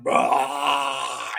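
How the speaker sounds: imitated long burp; Booger. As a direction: let out a drawn-out mock belch. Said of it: "wanted to burp like Booger did".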